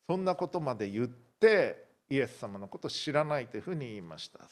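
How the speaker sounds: ordinary talk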